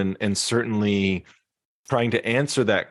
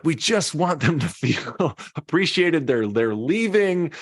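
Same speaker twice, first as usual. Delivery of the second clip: higher voice for worried clients; lightly voiced stressed executive; client quote; 8 semitones higher than usual. Coach quoting clients from his calls in a higher voice. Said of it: "they would say, like".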